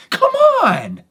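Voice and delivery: very high, loud come on; loud fed-up come on; exasperated plea. Retold or imitated. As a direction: throw up your hands and beg him. Last straw, urging the victim.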